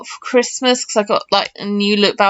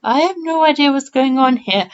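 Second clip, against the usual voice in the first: clueless inner thought; 3 semitones higher than usual. Retold or imitated. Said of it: "in my mind I was like".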